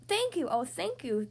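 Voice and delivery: lightly acted, gushing gratitude; grateful cry. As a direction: cry out thanks to your rescuers. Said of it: "the grateful witch cried".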